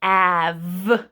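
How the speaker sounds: "Av" stretched slowly, sounds pulled apart; sounding out. Shown as a demonstration. Teacher sounding out have for the class, stretched. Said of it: "we are going to say it slowly".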